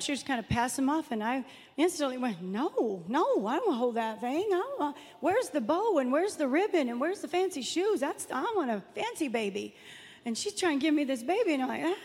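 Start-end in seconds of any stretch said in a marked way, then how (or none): 2.4-9.7 mock-fussy protest, pitch leaping up; retold refusal, picky and swooping higher; ugly refusal. Woman retelling her refusal to hold a plain baby, mock-ugly protest. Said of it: "why was I so ugly about that baby".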